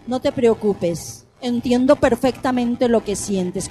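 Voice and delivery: mock consoling cliché. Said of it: "Cometemos el error tan grave de decirles".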